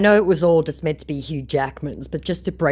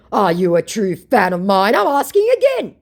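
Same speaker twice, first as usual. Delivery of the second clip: higher, louder, pushy demand; mock insistent scammer; 7 semitones higher, 8 dB louder than usual. The scammer demanding again if she's a fan, high and pushy. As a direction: press the question like a needy phony. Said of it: "he said".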